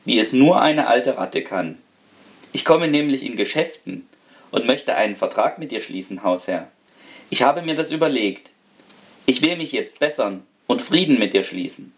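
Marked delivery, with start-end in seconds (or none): 2.5-11.9 a lightly voiced polite old rat; the rat politely offers a deal, lightly voiced; mannerly old rat. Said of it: "sprach so manierlich".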